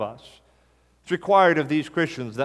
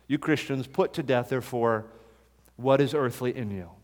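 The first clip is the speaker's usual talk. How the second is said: hushed verse; 3 semitones lower, 5 dB quieter than usual. Acted.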